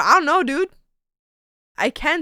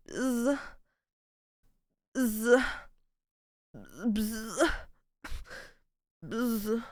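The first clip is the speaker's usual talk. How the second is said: rich bee buzz; 2 semitones lower, 13 dB quieter, much slower than usual. Pretend. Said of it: "But like a rich bee".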